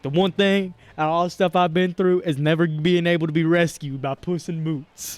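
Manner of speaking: lightly voiced cocky quote, slowing at the end; a hint of a smug athlete; Puss in Boots. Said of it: "Puss in Boots is like".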